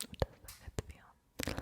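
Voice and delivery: very faint, soft whisper; barely audible whispered question; whispered echo. Acted.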